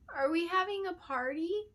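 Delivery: put-on high, eager child's voice; a small apprentice girl, bright and apologetic; little girl voice. Little apprentice surprising the queen, high child voice. Adeline's question.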